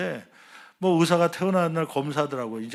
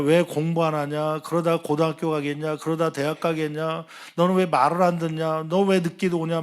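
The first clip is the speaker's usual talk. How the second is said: nagging; 2 semitones higher, 4 dB louder than usual. Retold or imitated. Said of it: "막 잔소리를 한참 해요".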